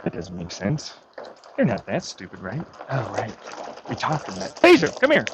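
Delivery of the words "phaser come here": shouting for the dog; loud call across the yard. Real, not acted. Calling the dog.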